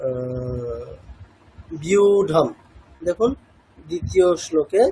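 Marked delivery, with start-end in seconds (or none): 1.8-2.5 বিউঢম said with the ব glided into উ, carefully; demonstrated pronunciation. Shown as a demonstration. Teacher demonstrating বিউঢম to students, careful and clear. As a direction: spell out বিউঢম slowly for students. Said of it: "যেমন for example হচ্ছে".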